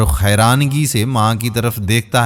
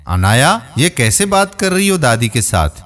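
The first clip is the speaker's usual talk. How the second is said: shouting at daughter. Acted. Father rebuking his daughter for rudeness to grandma, mildly shouting. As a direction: call her name sharply, then scold. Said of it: "بیٹی پر چیختا ہے".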